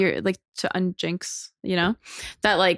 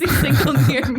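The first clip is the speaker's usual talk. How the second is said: laughing; 5 semitones higher, 3 dB louder, faster than usual. Real, not acted. Laughing at own ad photo.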